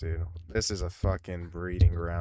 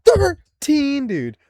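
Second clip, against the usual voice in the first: shocked gasp; 14 dB louder, much slower than usual. Real, not acted. Shocked by the applicant's age.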